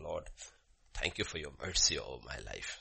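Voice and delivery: low, soft prayer of thanks; quiet prayer. Acted. Noah at the altar after the ark, quiet prayer. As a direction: pray it softly and humbly.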